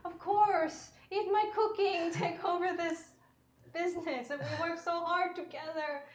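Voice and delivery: a mother clinging to her son's promise; hopeful mother. Acted.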